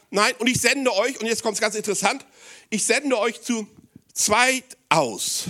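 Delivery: high, loud proclamation of Jesus' words; emphatic preaching. Acted. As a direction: call it out over the congregation.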